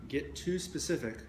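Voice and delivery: measured meditation guiding with long pauses between phrases; guided meditation. Real, not acted. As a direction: guide listeners into the body, leaving space after each phrase.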